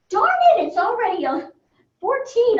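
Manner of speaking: high, startled outburst; dismayed surprise. Real, not acted. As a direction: yelp it as the time suddenly dawns on you. Realises time has run out.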